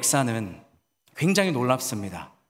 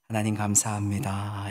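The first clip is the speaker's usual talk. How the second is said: slow, hushed prayer for her to follow; 7 semitones lower than usual. Shown as a demonstration. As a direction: pray it slowly, word by word. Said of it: "이렇게 천천히 이렇게 기도를 했습니다". (천천히 따라 하도록 나직하게 기도)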